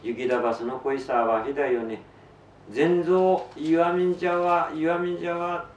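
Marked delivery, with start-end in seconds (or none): 2.7-5.7 high, loud cry calling a name; shouted cry. Retold or imitated. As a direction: call out to Zenzo with all your strength. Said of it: "と昭和して".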